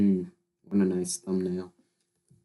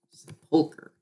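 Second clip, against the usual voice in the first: whispered try; 8 semitones higher than usual. Shown as a demonstration. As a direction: whisper "sepulchre" to yourself. Tries pronouncing word alone.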